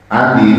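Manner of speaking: "Alim" begun on a plain alif vowel. Shown as a demonstration. Teacher showing the meaning "painful", alim with alif. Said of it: "alif ya".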